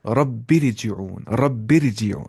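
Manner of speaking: "रब्बिरजिऊन" with a fine R after "bi"; Tajweed light ra in "रब्बिरजिऊन"; light thin R. Shown as a demonstration. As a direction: recite "रब्बिरजिऊन" as rabbir-ji'oon, R light. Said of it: "हल्की आवाज़ से पढ़ेंगे".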